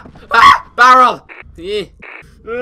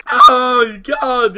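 loud, high wail after a scare; real fright; 5 semitones higher, 15 dB louder than usual. Real, not acted. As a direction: cry out, still reeling from the shock. Just screamed at a jump scare.

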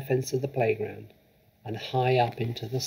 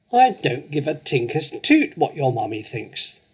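angry yell; 3 semitones higher, 4 dB louder than usual. Acted. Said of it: "the Trunchbull yelled".

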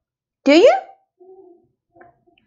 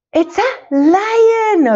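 drawn-out, higher answer for toddlers; slow prompting answer; 7 semitones higher, much slower than usual. Shown as a demonstration. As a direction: stretch it out like a teacher cueing kids. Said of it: "teacher models the answer".

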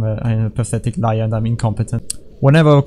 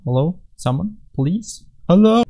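calling out; 6 semitones higher than usual. Pretend. Calling out into empty level.

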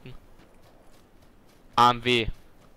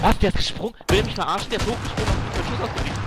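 disbelieving; 7 semitones higher, 5 dB louder than usual. Real, not acted. Disbelief at enemy's jump shot.

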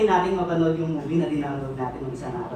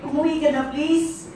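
higher, louder, pleading outburst; exasperated plea; 8 semitones higher, 5 dB louder, slower than usual. Acted. Poet begs faraway lover to come home, pleading. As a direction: beg them, voice lifted high.

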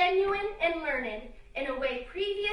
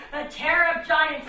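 loud declaiming; 5 dB louder than usual. Acted. Declaimed epithet.

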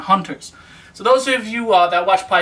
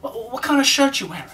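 lightly voiced curious viewer, higher pitch; a hint of an imitated onlooker, pitched up; viewers' question; 5 semitones higher, 4 dB quieter than usual. Viewers wondering about his shirt, lightly imitated question. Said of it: "I know you guys are wondering".

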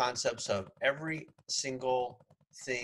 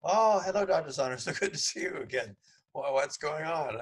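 higher and louder, overly warm host; imitating Otto; 5 semitones higher, 4 dB louder than usual. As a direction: gush over the returning guest. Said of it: "I walked back in".

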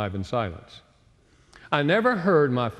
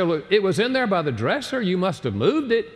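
retold irritation; 7 semitones higher than usual. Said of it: "I said".

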